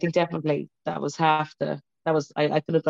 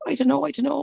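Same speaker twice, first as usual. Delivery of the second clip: anxious; 8 semitones higher than usual. Retold or imitated. Retelling her reluctance to test.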